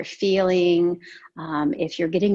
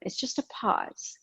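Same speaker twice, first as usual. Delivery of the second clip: hushed aside; 9 dB quieter than usual. Real, not acted. Yoga teacher guiding breath pause.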